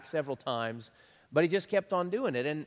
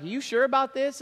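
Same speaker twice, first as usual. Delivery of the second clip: incredulous high question; 9 semitones higher, 3 dB louder, faster than usual. Retold or imitated. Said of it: "Zechariah's like".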